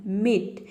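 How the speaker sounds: मीट with a held ee; stressed long ee. Shown as a demonstration. Teacher models another example word, मीट with long ee. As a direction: stretch the vowel in मीट. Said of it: "ऐसे बोलना है".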